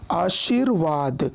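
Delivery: आशीर्वाद slow, र sounded before वाद; measured pronunciation. Shown as a demonstration. Teacher giving a reph example, आशीर्वाद slowly pronounced. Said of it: "उच्चारण उसके पहले होता है".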